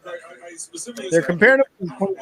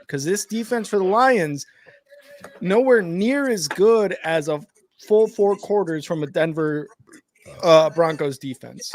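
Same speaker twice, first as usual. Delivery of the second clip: burping the words; 2 semitones higher than usual. Real, not acted. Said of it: "Sorry, I'm talking through burps".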